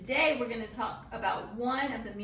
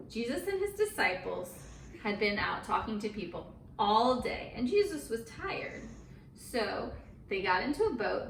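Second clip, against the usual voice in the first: put-on storytelling voice for little kids; a mom reading a Bible story to her girls, storyteller voice; reading to children. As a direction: tell it like a bedtime story.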